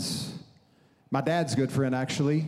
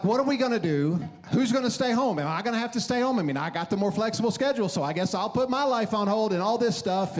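freaking out; 3 semitones higher than usual. Retold or imitated. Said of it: "I'm freaking out".

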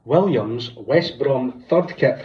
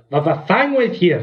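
mock Davey; 5 semitones higher, slower than usual. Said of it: "He goes".

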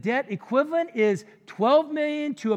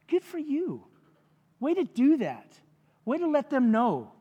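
high-pitched approving cheer, acted out; inward applause; 5 semitones higher than usual. Onlooker silently applauding someone's revenge, mock approval. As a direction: voice private congratulations for payback. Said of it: "like, inside applaud them".

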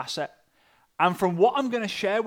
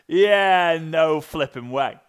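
emphatic refusal; 7 dB louder, much slower than usual. Retold or imitated. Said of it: "my first reaction was".

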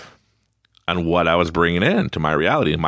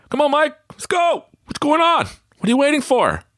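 much higher voice, buddy urging him on; impatient buddy. Retold or imitated. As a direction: hurry him up like a climbing partner.

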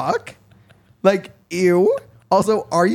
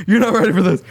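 laughing taunt; 4 semitones higher, 5 dB louder than usual. Acted. Repeats the taunt, louder.

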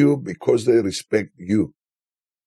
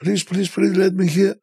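imitating pleading guys; 9 semitones higher than usual. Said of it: "they were shouting at him".

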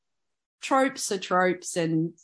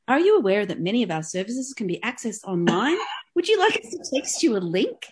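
phone queue recording; 3 semitones higher than usual. Pretend. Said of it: "What was that last bit".

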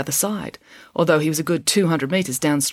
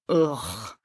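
low, softer "ugh" groan; a subdued, weary-sounding groan; group groan; 4 semitones lower, 5 dB quieter than usual. A narrator's reading. Students hear the food is across the river, groaning. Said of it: "Everyone groaned".

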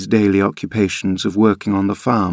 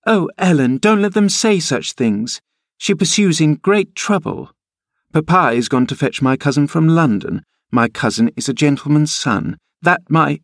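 put-on high, upset girlish pleading; tearful distress; 7 semitones higher than usual. A narrator's reading. Cathy pleading with Ellen about her cousin, upset. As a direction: protest like a child near weeping. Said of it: "she stopped and wept outright".

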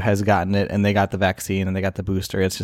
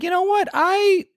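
retold anger. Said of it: "I was pretty mad. I was like".

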